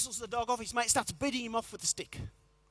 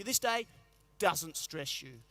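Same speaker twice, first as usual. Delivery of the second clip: lower, slow and soothing; calm mantra; 5 semitones lower, slower than usual. Pretend. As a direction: let it sink in, unbothered.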